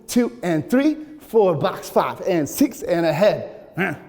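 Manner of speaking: counted at full tempo; up to speed. Shown as a demonstration. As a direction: call it at dance speed. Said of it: "we're gonna go up to speed".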